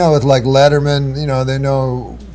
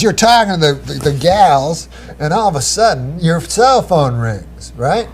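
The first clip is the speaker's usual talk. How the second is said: excited producer; 5 semitones higher than usual. Retold or imitated. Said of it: "Like, he's really excited".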